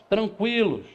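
usual speaking voice

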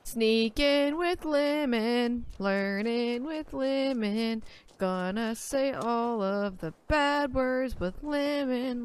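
slow sing-song ad slogan; slow, drawn-out mock jingle. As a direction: sell it like a kids' show jingle.

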